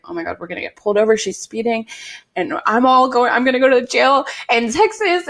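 fast, rising panic, pitch climbing; panicked rush. Retold or imitated. Retelling her panic ride with a speeding stranger, fast and frantic. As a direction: spiral into a rushed panic about getting pulled over. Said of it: "I was freaking out".

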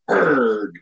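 short low annoyed grunt; a mock "erg" of disgust at the bad drink; frustrated grunt. Worker annoyed at the wrong drink, low grunt. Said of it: "That's the look he has on his face".

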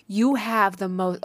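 slow, dreamy delivery. Retold or imitated. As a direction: draw it out dreamily, as if entranced. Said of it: "in a very dreamy voice".

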